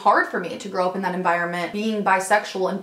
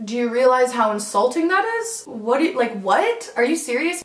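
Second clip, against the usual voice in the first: getting worked up; 4 semitones higher than usual. Real, not acted. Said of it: "I'm getting worked up".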